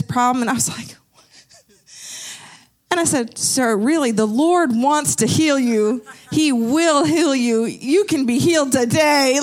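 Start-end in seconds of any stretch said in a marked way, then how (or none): 3.4-9.4 a hint of a slow, emphatic TV preacher. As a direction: lightly imitate a televangelist promising healing. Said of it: "one of those preachers on T V".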